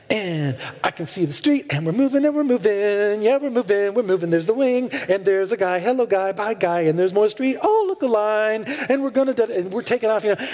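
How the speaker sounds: lightly voiced excited little girl; cute little girl voice. Pastor imitates a girl on the plane, a hint of little-girl chatter. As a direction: chirp it like a four-year-old at the window. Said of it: "narrating the whole event in her cute little precious voice".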